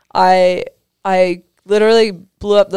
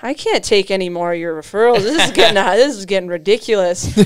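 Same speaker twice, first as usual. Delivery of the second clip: mock frustrated surgeon; 4 dB louder than usual. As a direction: retell the surgeon's frustration with a grin. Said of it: "he's, like, super frustrated".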